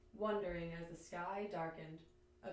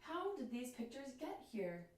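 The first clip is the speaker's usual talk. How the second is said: mild wonder, lightly raised; delighted; 4 semitones higher than usual. Acted. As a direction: ask as a happy little bird.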